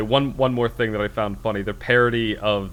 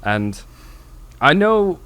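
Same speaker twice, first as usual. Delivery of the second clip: put-on a light posh British accent, deadpan and slowish; lightly voiced posh English gentleman, deadpan; 3 dB louder than usual. Retelling a Monty Python interview, light posh British accent. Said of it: "posh British accent".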